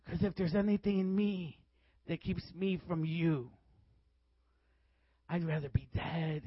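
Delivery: soft, halting plea to God; imitated hushed prayer. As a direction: re-enact a private prayer, voice dropped. Re-enacts woman's prayer on the ground.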